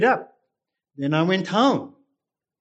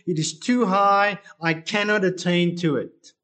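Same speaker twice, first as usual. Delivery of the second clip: scripture reading. Acted. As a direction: read it like a prayer to God. Pastor reads psalm aloud.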